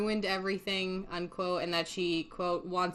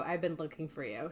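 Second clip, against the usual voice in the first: "been" in "I've been looking for you" said softer, trailing off; softer echo; 4 semitones lower, 7 dB quieter than usual. Retold or imitated. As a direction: let the repeat fade away quietly. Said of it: "this is a quote verbatim".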